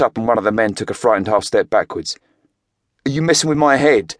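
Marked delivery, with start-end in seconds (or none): 3.1-4.2 louder, higher angry outburst; angry blurt. A narrator's reading. Boxer shocked to find drugs in the count house, angry blurt. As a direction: blurt it out in disbelief and anger. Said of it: "Craig blurted angrily".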